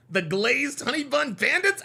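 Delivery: slow, rising disbelief; slow incredulous repeat. Real, not acted. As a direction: savor the absurd name. Repeating the joke.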